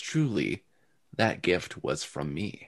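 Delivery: soft, hushed female inner voice. Narrating to Kravoi a voice heard inside his head: female voice in head. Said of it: "You hear a female voice that says".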